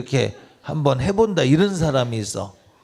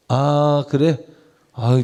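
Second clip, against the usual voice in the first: ordinary talk, nothing marked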